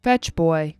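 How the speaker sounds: slow, flat robot delivery; monotone like a robot. Retold or imitated. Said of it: "he talks like a robot".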